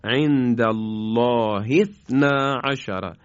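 عند الله اثنا عشر recited slowly with Arabic vowels, joining اثنا; slow Quranic recitation. Shown as a demonstration. Teacher recites the verse for the class, slow and measured. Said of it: "اثنا شروع کنیم، یعنی با کسره".

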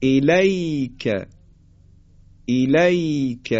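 الیک drawn out, soft gliding یا; slow soft leen demo. Shown as a demonstration. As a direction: stretch الیک gently. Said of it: "یا ساکن ما قبل مفتوح".

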